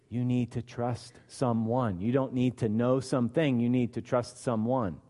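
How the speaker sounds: calm the worrier down; gentle reassurance. Acted. He says, Jesus's words.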